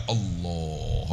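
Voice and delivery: long, low, soft drawn-out "Allah"; exaggeratedly unhurried prayer voice, low and hushed; slowed-down showy takbir. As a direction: stretch the takbir out slowly for onlookers. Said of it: "buat lambat sikit lah".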